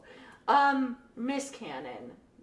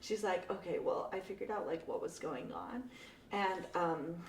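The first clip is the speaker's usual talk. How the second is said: quiet; 5 semitones lower, 8 dB quieter than usual. Retold or imitated. Quoting the girl softly.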